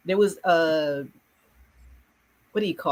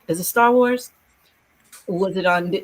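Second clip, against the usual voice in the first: put-on kid asking; 2 semitones higher, 4 dB louder than usual. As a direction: pipe up like an excited pupil. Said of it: "so I get kids".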